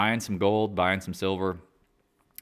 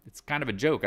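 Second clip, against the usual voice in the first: hillbilly; 6 semitones higher than usual. Retold or imitated. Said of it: "And then they're like".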